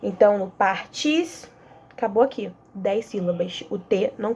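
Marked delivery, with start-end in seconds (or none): 0.5-1.5 "tis" lifted high after "par"; stress on tis. Shown as a demonstration. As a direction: hit "tis" as the last stressed beat. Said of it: "a última sílaba tônica". ("tis" acentuado e mais agudo)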